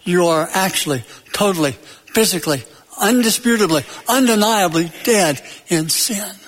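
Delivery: word by word, with pauses between; grave pronouncement. Retold or imitated. Preacher applies the Munchkins' words to sinners, deliberate pronouncement. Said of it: "Paul is saying".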